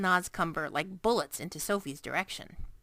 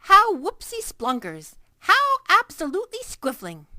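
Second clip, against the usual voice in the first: overjoyed; 11 semitones higher, 11 dB louder than usual. A narrator's reading. Giant overjoyed at Sophie's praise, very loud. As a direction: shout for joy.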